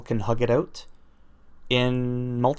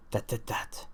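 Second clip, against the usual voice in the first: whispered aside; 10 dB quieter than usual. Acted. Joking aside blaming Huawei.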